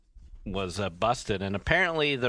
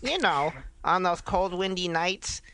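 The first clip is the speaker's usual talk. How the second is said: dramatic reading; 5 semitones higher than usual. Acted. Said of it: "do a dramatic reading".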